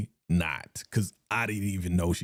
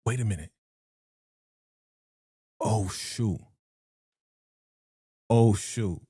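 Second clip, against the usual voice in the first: sudden realisation. Real, not acted. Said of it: "Something just popped in my head".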